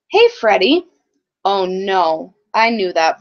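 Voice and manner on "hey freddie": loud, higher call of a bully. Acted. Bully calling out to narrator.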